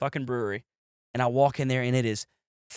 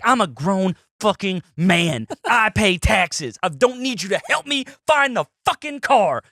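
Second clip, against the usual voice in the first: slow, higher, offended insistence; indignant; 5 semitones higher, slower than usual. Retold or imitated. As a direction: drag it out like a proud stubborn drunk. Refusing girlfriend's help indignantly.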